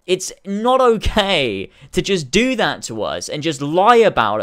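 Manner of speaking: furious rant at offended critics. Real, not acted. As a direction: tear into them at full volume.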